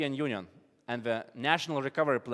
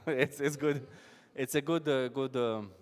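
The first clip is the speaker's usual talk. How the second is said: laughing; 4 dB quieter than usual. Real, not acted. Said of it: "Let's laugh".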